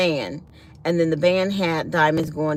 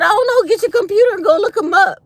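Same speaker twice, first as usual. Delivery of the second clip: laughing; 13 semitones higher, 7 dB louder, faster than usual. Retold or imitated. Retold reply to husband, laughing.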